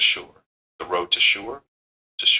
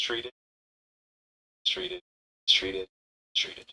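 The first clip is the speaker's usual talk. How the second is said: soft mistreated, stress on treated. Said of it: "The emphasis on treated like this".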